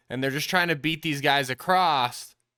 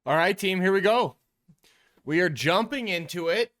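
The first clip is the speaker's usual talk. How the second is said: excited; 5 semitones higher than usual. Real, not acted. Hyped opener to film session.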